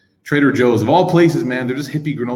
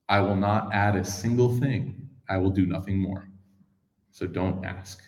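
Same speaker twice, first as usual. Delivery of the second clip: curt, fading; 2 semitones lower, 7 dB quieter, slower than usual. Retold or imitated. Bedouin's curt exit line.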